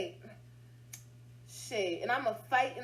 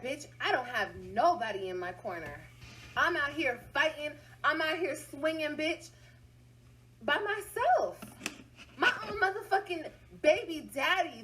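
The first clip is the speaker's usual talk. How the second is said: building outburst; 3 semitones higher than usual. Real, not acted. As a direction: build it up until you're almost yelling. Venting, rising to outburst.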